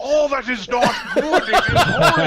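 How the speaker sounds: laughing, hammed-up indignation; high, loud mock horror, laughing; mock outrage. Mock outrage at neutral item.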